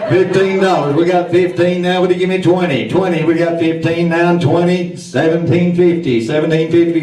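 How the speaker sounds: auctioneer. Acted. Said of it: "our auctioneer".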